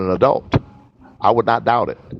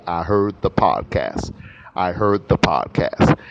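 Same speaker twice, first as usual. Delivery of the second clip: slow model message; 2 semitones lower, slower than usual. Shown as a demonstration. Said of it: "tell me".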